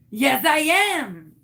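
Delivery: loud, slow insistence in a fake French-Canadian accent. Caller insisting she is her friend, fake Canadian accent. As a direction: drag it out in a hammed-up French accent. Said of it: "What happened to your accent?".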